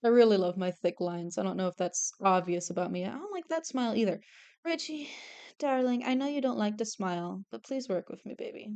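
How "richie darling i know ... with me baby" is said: gentle coaxing. Pretend. Coaxing drawn character to cooperate.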